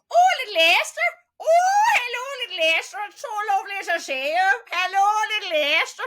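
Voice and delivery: very high, loud, gushing Northern Irish auntie; Auntie Bridie, Northern Irish. Retold or imitated. Imitating an auntie greeting little Esther, high Northern Irish squeal. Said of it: "my Auntie Bridie used to go".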